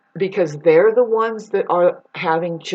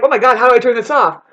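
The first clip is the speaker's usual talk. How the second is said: mock panic; 4 semitones higher, 6 dB louder, faster than usual. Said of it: "You're like".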